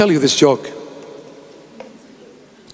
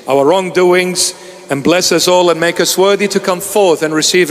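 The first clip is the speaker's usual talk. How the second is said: solemn priestly blessing; steady liturgical blessing. Acted. Blessing before communion.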